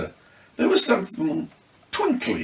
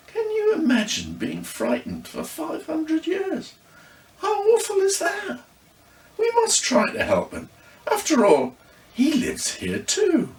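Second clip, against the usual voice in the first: put-on high, near-tearful girl voice; girl urging the others to help; pleading girl. A narrator's reading. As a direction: plead for the frightened ghost. Amelie pleads with tearful sympathy.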